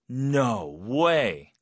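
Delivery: emphatic, stretched surprised "no way". Shown as a demonstration. Teacher recapping four no ways, the surprised one. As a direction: say it as a surprised exclamation. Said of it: "놀랐을 때".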